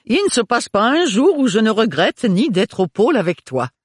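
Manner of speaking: high-pitched, effusive sister voice; gushing sister. Acted.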